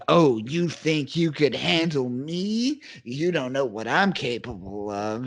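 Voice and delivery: a hint of military villain bluster; cliche bad guy. Military villain taunting Storm, mock menacing. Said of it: "typical cliche of, like, the bad guy".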